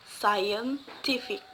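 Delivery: scientific slowly split, scien, TI-fic; stress on second-last syllable. Shown as a demonstration. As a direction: softly break scientific before stressed TI. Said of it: "the other example is scientific".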